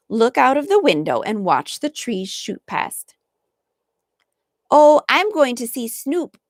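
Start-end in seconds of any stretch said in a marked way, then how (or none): 4.7-6.4 put-on higher, eager child's exclaim; excited exclaim. A narrator's reading. Flossie to her brother, sudden eager exclaim. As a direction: burst out with sudden delight. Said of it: "exclaimed Flossie suddenly".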